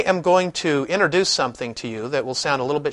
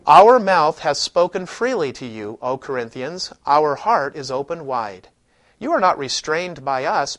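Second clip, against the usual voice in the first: modern scripture reading. Shown as a demonstration. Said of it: "listen to a modern translation".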